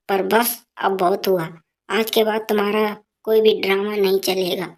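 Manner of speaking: daughter-in-law talking back to her mother-in-law, firm; defiant daughter-in-law. Acted.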